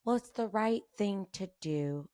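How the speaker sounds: slow, preachy family voice; family's preachy line. Retold or imitated. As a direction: imitate the family preaching, slowly. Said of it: "my family's all about".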